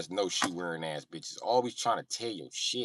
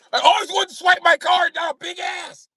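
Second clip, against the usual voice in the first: put-on very high, loud, excited old white guy; old white guy impression; 13 dB louder than usual. Old white guy wanting to swipe his card, high shouting. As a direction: holler it in a giddy high voice.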